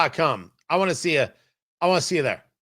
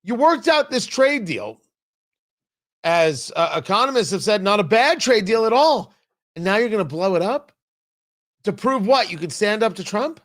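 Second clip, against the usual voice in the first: mock European voice; 4 semitones higher than usual. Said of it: "European markets are like".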